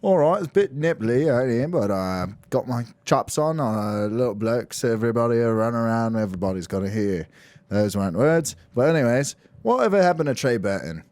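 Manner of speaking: lightly put-on London accent. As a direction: play the London correspondent. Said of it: "Take it to the London correspondent".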